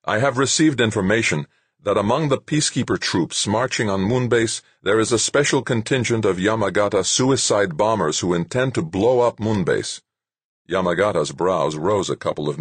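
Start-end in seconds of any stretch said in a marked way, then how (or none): 0.0-10.0 through gritted teeth. A narrator's reading. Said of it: "said through gritted teeth".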